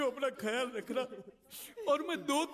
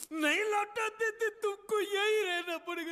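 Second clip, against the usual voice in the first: tearful; 6 semitones higher than usual. Acted. Tearful parting from his nephew.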